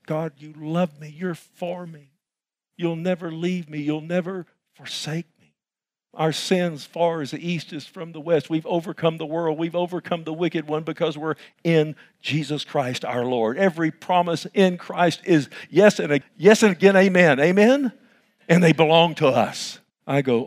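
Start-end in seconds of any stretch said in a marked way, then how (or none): 0.1-5.5 soft, tender prayer to God. Retold or imitated. Pastor voicing a grateful believer, softly tender. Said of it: "That right there can break our hearts". 13.6-19.8 rising, louder preacher's call; preaching at full force. Acted. Pastor calling for an amen, loud and rising.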